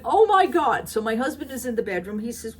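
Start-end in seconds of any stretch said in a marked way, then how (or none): 0.0-0.9 shocked gasp. Retold or imitated. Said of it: "I went".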